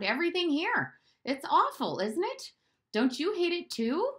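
put-on high, pleading boy voice; a bored child whining to the maid; complaining boy. Bruno whines to Maria about the new house, high and pleading.

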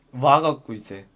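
usual speaking voice

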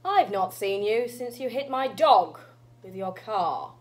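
lightly voiced reproachful old witch; measured old-granny accusation. Granny to Purple about the dog, reproachful old witch. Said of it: "an old witch".

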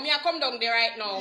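low rural Jamaican patois demo; country Jamaican accent. Shown as a demonstration. Hairstylist shows real country talk, low Jamaican patois. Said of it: "Real dog a country".

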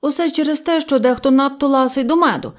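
a strict rabbit refusing the excuse; stern no. Acted. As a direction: cut him off sternly. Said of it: "суворо мовив кролик".

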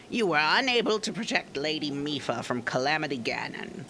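hammy accusing warrior voice; Zora guard Segan. Acted. Segan voiced in game dialogue.

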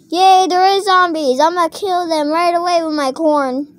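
high, loud, eager pretend voice; excited cheer. Corn launcher hearing of zombies, high excited cheer. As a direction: cheer it, keen for the fight. Toy glad to fight zombies.

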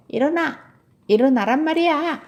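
high, loud wake-up yell; impatient shouting. Acted. Tilly tells her dozing bear to get up, impatient shouting. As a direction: order a sleeper up at full voice.

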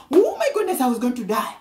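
amazed exclaim. Retold or imitated. Preacher voicing a saved woman's amazed cry. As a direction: burst out like someone just rescued from death. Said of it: "he literally is like".

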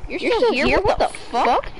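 shocked. Real, not acted. Shocked they're still here.

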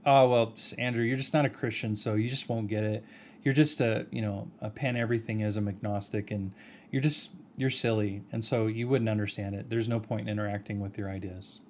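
lightly acted condescending brush-off; mock condescending. Imitating condescending students to show Andrew, mildly patronizing. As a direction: talk down to them dismissively, only mildly hammed-up. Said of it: "Do you see how condescending that is".

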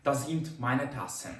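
slow, careful German example; slow model sentence. Shown as a demonstration. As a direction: say each German word slowly and clearly. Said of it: "так от це розуміти".

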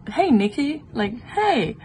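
light mock high greeting; imitating stranger. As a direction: lift it like a pushy stranger. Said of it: "And he was like".

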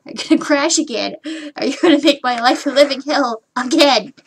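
mildly exasperated acted complaint; mock frustrated outburst. Streamer dreading another crash, mildly frustrated outburst. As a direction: play up a touch of exasperation. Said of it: "I'm so frustrated and angry".

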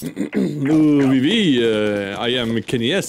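a light mock French pro gamer; lightly voiced French pro bragging to teammates; Kenny S impression. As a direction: boast like a French star player. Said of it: "He sounds like Kenny S".

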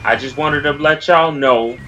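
slow formal announcement voice; mock-official PSA delivery; public service announcement. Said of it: "I got a public service announcement".

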